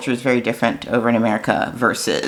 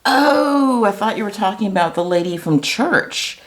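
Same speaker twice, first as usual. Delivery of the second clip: high, bright-eyed "Oh" of sudden understanding; mother-in-law realizes the mix-up, mock surprised high voice; surprised realization; 8 semitones higher than usual. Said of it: "She's completely surprised".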